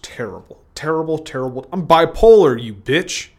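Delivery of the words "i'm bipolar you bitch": angry outburst. Acted. Sudden outburst at Joe.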